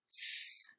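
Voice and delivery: "s" made as voiceless th, tongue out; th sound. Shown as a demonstration. Teacher introducing a new sound, "s" as airy th. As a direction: blow air between tongue and teeth for "s", as th. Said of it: "you have to stick your tongue out".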